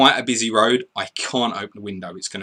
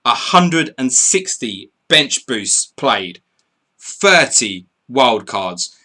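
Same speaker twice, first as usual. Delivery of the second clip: slow, emphatic results announcement; announcer's stats update; 3 semitones higher, 6 dB louder, slower than usual. Acted. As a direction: read each figure out with weight, pausing between. Announces official chip statistics.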